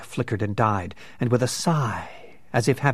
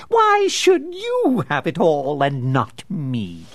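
furious; 4 semitones higher, 5 dB louder, slower than usual. Acted. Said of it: "With mind-blinding fury".

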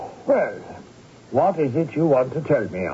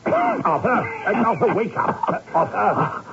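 calling out; 6 semitones higher than usual. Acted. Rousing a fainted friend.

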